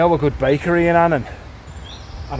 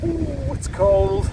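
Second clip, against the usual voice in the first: surprised yelp; 9 semitones higher, 4 dB quieter, much slower than usual. Real, not acted. Touching cold river water.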